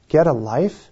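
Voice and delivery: musing, incredulous repeat; puzzled echo. Real, not acted. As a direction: turn the heckler's jab over in your mind. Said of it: "And I thought about it".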